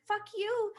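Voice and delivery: fast, heated mock rant; exasperated rant. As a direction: rattle it off, fed up. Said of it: "I'm like".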